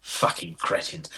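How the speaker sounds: slow, hushed posh English sneer; whispered posh insult. Acted. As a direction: hiss it like an old posh gent. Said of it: "when did people stop speaking like that".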